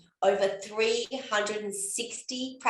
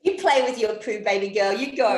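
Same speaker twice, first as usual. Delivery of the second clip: playful cheer; 7 dB louder than usual. Pretend. Playful encouragement to inner child.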